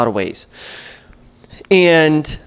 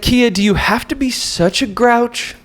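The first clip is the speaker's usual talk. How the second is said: mock scolding inner voice; 9 semitones higher than usual.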